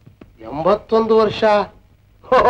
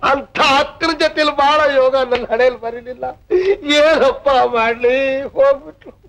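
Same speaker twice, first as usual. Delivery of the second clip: higher, tearful lament for his sister; crying; 5 semitones higher than usual. Acted. Tenant fakes tears to the landlady about his sister, crying. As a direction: sob it out, mourning the lost sister. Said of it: "ಅಳ್ಬೇಡ ತಮ್ಮು".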